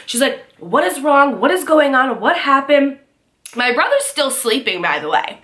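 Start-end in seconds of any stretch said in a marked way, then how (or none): 0.6-3.0 higher-pitched urgent questions; alarmed questioning. Retold or imitated. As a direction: imitate a panicked mother bursting in. Retold mom rushing in alarmed.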